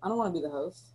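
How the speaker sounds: glitchy metallic robot sound; bad connection, robotic voice. Real, not acted. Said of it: "you sound super robotic".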